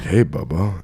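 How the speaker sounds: lightly imitated Southern greeting; Southern-accented date. Imitating his date calling him Bubba, light Southern accent. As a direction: put on a slight Southern man's voice. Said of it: "little bit of a Southern accent".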